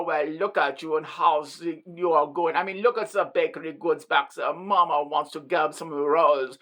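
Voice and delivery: put-on German accent. Hitting on the junior officer, hammed-up German accent. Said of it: "I pull out the German accent".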